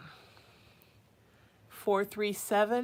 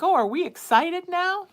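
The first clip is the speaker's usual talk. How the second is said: much higher and louder, hyped; excited cat voice; 10 semitones higher, 12 dB louder than usual. Retold or imitated. Mom voices her excited cat, high and loud. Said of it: "He's like".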